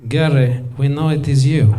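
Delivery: mock-sinister Russian operator; Russian accent. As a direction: lean in like a Russian agent who knows everything. Menacing Russian call center.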